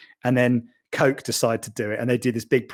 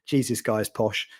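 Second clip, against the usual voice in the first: mock local worker; 3 semitones lower, 4 dB quieter, slower than usual. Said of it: "they were looking at me going".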